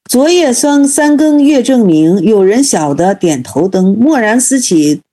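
slow, measured reading of a verse; storyteller intoning an old Buddhist verse; verse recitation. A narrator's reading. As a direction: recite it line by line, unhurried. Elder's verse read aloud.

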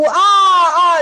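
loud, imitated mourner's wail; mock wailing. Bereaved son crying at a funeral, mock wailing. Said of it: "那个孝子就要哭".

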